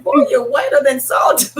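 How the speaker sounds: laughing while she teases him; playful jab spoken through a laugh. Retold or imitated. Teasing the young Jamaican man, laughing as she says it.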